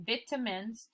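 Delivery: vitamins as "VIT-uh-mins", short first I; altered reading of vitamins. Shown as a demonstration. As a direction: say vitamins with "vit" and a weak middle. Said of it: "Change the word to make sense".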